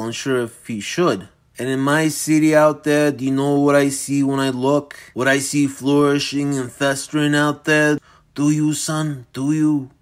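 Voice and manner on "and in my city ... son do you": put-on menacing old villain. Dorian pressing Michael.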